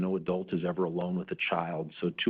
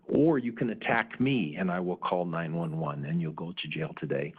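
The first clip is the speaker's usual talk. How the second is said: matter-of-fact. Retold or imitated. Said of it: "I very matter-of-factly said to Alex".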